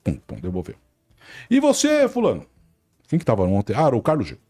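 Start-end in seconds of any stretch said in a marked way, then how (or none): 1.5-2.5 much higher, pumped TV narrator opening; Luiz Roberto opening. Retold or imitated. Narrator opening the match broadcast, much higher and pumped. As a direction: throw it to the reporter with broadcast energy. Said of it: "Aí o Luiz Roberto começa".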